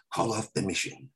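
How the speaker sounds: mock Carradine line. Carradine acting scene.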